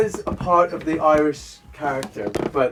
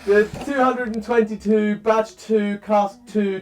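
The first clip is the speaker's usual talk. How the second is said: laughing; 7 semitones higher, slower than usual. Real, not acted. Still laughing, reading the numbers.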